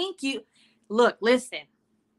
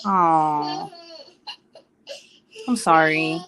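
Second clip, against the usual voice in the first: tearful sorry; 4 semitones lower, 3 dB louder, much slower than usual. Real, not acted. Sympathizing, crying heard.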